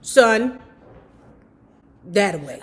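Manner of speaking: put-on gently steer the boy away, a touch of grandma; old lady. Old lady advising the singer to leave, lightly voiced. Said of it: "The little white old lady said".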